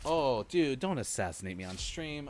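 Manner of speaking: high, loud horrified reaction; shocked wincing. Real, not acted. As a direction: recoil at the replay. Reacting to a gory replay.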